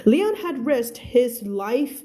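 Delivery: careful, deliberate English story reading; spaced-out teacher's narration; slow model reading. Acted. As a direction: read slowly for learners, enunciating each word. Teacher reads story aloud.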